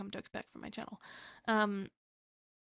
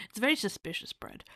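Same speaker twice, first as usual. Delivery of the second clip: laughing whisper; 6 dB louder than usual. Real, not acted. Laughing at seedy bread.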